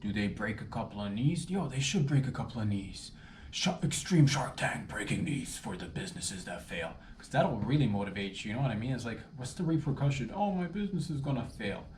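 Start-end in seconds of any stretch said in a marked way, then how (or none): 3.5-6.9 hushed conspiratorial whisper; whispered aside. Acted. Whispering his wild idea to the audience. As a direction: breathe it like a secret pitch.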